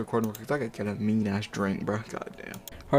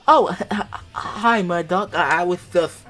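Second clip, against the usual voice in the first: nervous laughing; 6 semitones higher, 6 dB louder, slower than usual. Acted. Reading caught, nervous Tootie.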